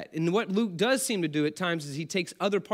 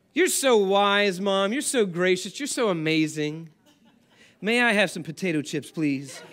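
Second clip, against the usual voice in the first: mock flattery. Manipulative child sweet-talking mom for chips, hammed-up. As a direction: lay the compliments on thick, then ask. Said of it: "they're a little manipulative".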